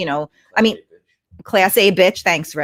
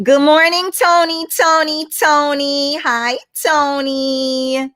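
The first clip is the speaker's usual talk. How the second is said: excited greeting; 7 semitones higher, 3 dB louder, slower than usual. Real, not acted. Streamer calling greeting to viewer.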